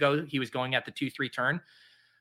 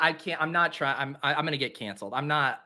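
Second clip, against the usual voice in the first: normal talking voice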